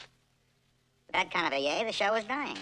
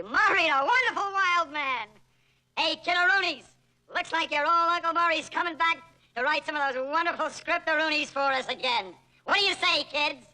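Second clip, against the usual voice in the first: gushing host; 11 semitones higher, 4 dB louder than usual. Acted. Host gushing over Murray.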